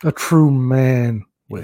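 slow, put-on French accent; mock French accent. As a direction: playfully fake a French accent. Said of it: "did that in a French accent".

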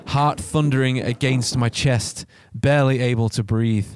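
intent horror-story reading; story narration. A narrator's reading. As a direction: narrate the frightening night with steady drive.

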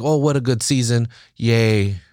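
sarcastic fake celebration; a hammed-up "what a good season" with a limp yay; mock cheer. Fan mocking a premature season wrap-up, mildly sarcastic. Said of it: "I'm talking like this is done".

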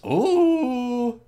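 high, drawn-out mock crowd ooh; crowd's scandalized "ooh". Audience reacting to Chyna's confession, high imitated ooh. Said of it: "And everybody goes".

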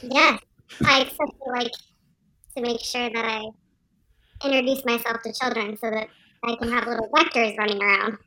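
cheery virus character voice; pleasant upbeat voice. Acted. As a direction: sound sweet and upbeat while saying dark things. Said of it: "such a pleasant and upbeat voice".

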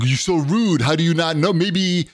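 lightly voiced childish protest; whiny baby imitation. Maskless guy to the woman scolding him, imitated babyish protest. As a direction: imitate a grown man acting like a child. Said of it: "he's starting like a baby".

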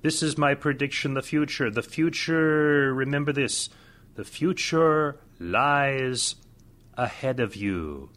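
hammed-up mystic seer voice; lightly voiced fortune teller. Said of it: "bad acting like that".

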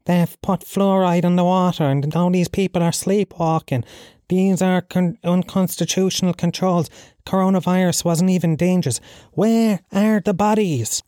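high-pitched mock protest speech; ranting Cork conspiracist. Cork man outside People's Park warning sleepwalkers, mock rant. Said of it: "he's going".

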